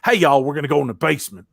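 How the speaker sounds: imitated Southern drawl. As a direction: tease with a folksy Southern drawl. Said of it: "that little southern drawl popping in there".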